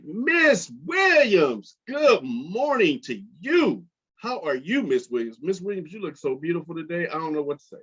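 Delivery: hoog ingezet, traag slijmend complimentje; smooth flirting classmate. Retold or imitated. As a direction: lay the charm on thick, slowly. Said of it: "This is my David Williams impression".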